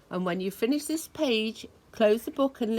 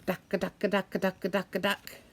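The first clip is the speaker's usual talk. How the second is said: jackhammer; slower than usual. Retold or imitated. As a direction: hammer each dack evenly. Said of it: "The jackhammer hurts my ears".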